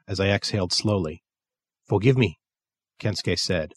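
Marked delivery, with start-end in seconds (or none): 1.9-2.4 put-on Japanese accent. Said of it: "in his thick Japanese accent".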